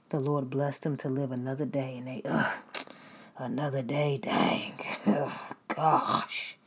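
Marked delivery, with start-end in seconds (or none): 2.3-6.6 mock weary groan. Complainer waking up.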